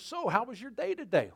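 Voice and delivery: a hint of a chirpy mom; mom greeting kid. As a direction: call out a mock-motherly greeting. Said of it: "Mom comes out and says".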